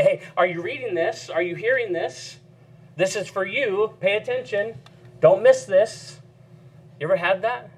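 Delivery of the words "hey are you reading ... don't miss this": higher, urgent call that grabs the reader; like the page tapping you on the shoulder; scripture calling out. Pretend. The verse grabbing a reader by the collar, urgent. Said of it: "as if to say".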